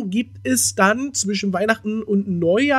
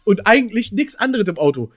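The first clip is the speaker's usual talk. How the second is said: "eigentlich" picked out with clear emphasis; stress on EIGENTLICH; 3 semitones higher than usual. Real, not acted. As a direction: lean on the word "eigentlich". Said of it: "Die, die Betonung liegt auf eigentlich".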